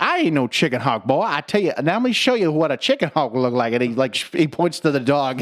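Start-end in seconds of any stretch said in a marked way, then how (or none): 0.0-3.7 Foghorn voice. Retold or imitated. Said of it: "He's like".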